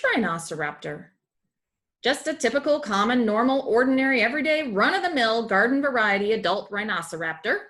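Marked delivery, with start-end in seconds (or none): 2.0-7.6 loud, rapid pile-up of synonyms, mildly mocking; a hammed-up exasperated character; exasperated listing. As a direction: rattle off every word for ordinary, getting louder. Character piling up sarcastic synonyms.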